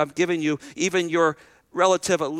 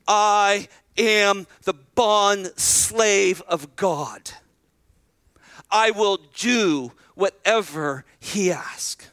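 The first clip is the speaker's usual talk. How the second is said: slow, hushed and humble, dropping to a whisper; a young girl giving herself over, barely above a whisper; much slower than usual. Retold or imitated. Mary humbly answers the angel, slow and whispered. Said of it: "I imagine she said in the most humble way".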